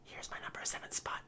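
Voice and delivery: hushed whisper, quick and breathy. Real, not acted. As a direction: drop to a secret whisper.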